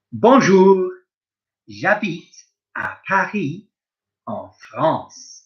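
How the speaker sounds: a lightly voiced French speaker, slow and clear; French speaker role. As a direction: play a French person saying where they live, lightly. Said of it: "I'm gonna play the part of various other people".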